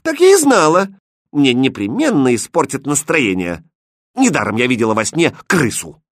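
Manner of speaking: high, loud vexed cry; fed up and cross; angry. Acted. Princess cries out angrily at the court, loud. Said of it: "сердито воскликнула принцесса".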